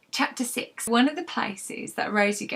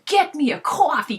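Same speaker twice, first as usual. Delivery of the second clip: TV chief; 7 semitones higher, 6 dB louder than usual. Retold or imitated. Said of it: "he'd go".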